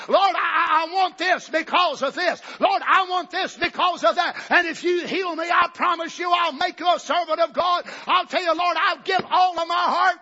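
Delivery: mock a begging prayer, lightly; selfish bargaining prayer.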